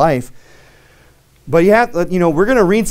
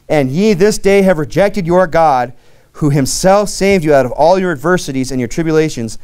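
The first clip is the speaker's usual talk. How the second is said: emphatic, sustained Bible reading; scripture reading. Acted. Preacher reads Samuel's words to Israel, emphatic scripture reading. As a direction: read God's rebuke out to the congregation.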